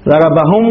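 "ضربهم" stopped on a vowelless m; pausal mim. Shown as a demonstration. Teacher showing the pause form, "ضربهم" ending in -hum. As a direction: close "ضربهم" on the m, no final u. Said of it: "يقف على الميم بالإسكان".

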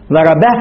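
"ضربه" stopped on a vowelless h; pausal ha. Shown as a demonstration. Teacher showing the pause form, "ضربه" ending in -bah. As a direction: close "ضربه" on a breathed h, no final u. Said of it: "يقف على الهاء بس-، ب-، بالإسكان".

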